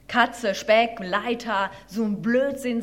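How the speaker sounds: mildly scoffing, each word punched loudly; scornful mole. Acted. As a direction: dismiss it as rubbish.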